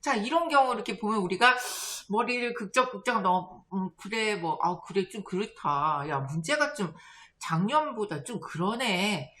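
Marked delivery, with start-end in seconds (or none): 3.7-9.3 low, hesitant agreement; half-hearted comforting. Retold or imitated. Friend consoling a failed test-taker, half-hearted comforting. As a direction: offer grudging, noncommittal sympathy. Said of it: "이렇게 하고 위로를 해줄 수도 있지만".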